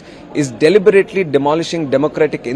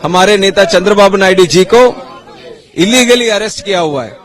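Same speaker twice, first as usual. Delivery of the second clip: fast impassioned speech; 4 semitones higher, much faster than usual. Real, not acted. Politician speaks fast at protest.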